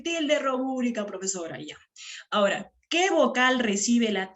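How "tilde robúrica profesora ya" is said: student answering teacher. Acted. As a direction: lightly voice a pupil reciting the answer. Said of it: "Y tú qué me vas a decir". (imitando un poco a un alumno que responde)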